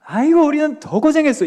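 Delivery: hammed-up older church lady, dismissive; mock dismissive elder. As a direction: parody the wrong way to comfort. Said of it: "뭐라고 해야 될까요?".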